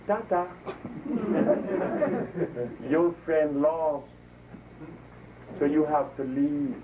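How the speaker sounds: slow, mock-polite dismissal with a laugh; mocking official. Imitating the prime minister telling him to leave, slow and amused. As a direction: drawl it out with a laugh, imitating her. Eugenia Charles evicts him.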